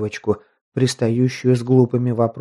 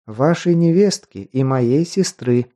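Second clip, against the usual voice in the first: gentle; slower than usual. Acted. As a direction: say it gently, unhurried. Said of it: "мягко подтвердила Вереск".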